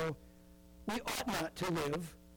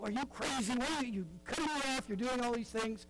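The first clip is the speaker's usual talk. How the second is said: higher-pitched indignant driver; exasperated mock complaint; mock road rage; 5 semitones higher than usual. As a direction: act out a driver who got cut off. Acting out a cut-off driver.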